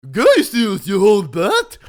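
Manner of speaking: loud, high angry howl. Acted. Bruce howling at the old lady, loud angry howl. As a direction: howl it like a furious rich man. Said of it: "he howled".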